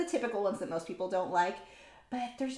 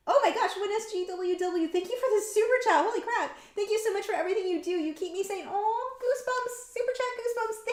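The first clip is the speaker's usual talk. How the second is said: high-pitched, gushing thanks; touched excitement; 10 semitones higher than usual. Real, not acted. Streamer thanking a viewer for a super chat, high excited gushing. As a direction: gush with real goosebumps, pitched up high.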